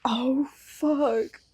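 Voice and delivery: soft breathless whisper; whispered curse. Retold or imitated. Friend chiming into the story, whispered dismay.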